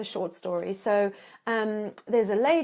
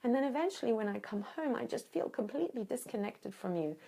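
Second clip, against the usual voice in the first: gentle calm statement; 5 dB quieter than usual. Shown as a demonstration. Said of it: "So when you say".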